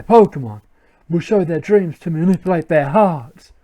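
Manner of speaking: lightly voiced proclaiming villain; villain grunt. Team Plasma grunt explaining the plan, lightly acted villain. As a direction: declare it like a self-important henchman.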